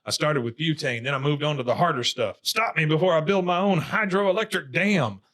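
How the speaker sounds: mock confession. Bobby confesses to the gas cop, mock-desperate. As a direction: build to a hammed-up plea.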